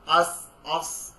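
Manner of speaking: "আস, আস" drawn out slowly, ending stopped with no bounce; very slow sukun demo; soft stop, no bounce. Shown as a demonstration. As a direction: hold it and just stop. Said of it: "কোনো ধাক্কা দিচ্ছি না".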